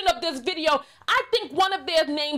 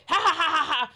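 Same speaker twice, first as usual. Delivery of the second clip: Muppet laugh imitation; faster than usual. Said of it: "laughed like a Muppet".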